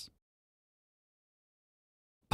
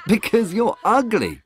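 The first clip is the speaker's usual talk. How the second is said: higher, jeering words through laughter; laughing mockery; 8 semitones higher, 4 dB louder than usual. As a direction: taunt him while laughing. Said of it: "they laughed at him".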